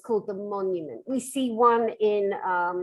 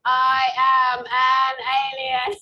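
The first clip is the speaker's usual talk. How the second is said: put-on slow, drawn-out kid's alien voice; 2 semitones higher, 8 dB louder, slower than usual. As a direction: play a kid pretending to be an alien. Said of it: "you talk like an alien".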